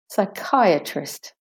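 "Psychiatrist" slowly, sy-KAI-uh-trist; de-stressed A. Shown as a demonstration. Teacher repeating for learners, slow "Psychiatrist" with schwa A. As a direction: join up "Psychiatrist" slowly with a weak A. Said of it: "The A is de-stressed".

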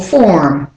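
"form" with an American pronounced r. Shown as a demonstration. Teacher offering learners the American variant, r pronounced. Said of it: "if you're doing the American".

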